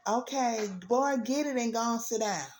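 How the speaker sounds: giving-in parent. Retold or imitated.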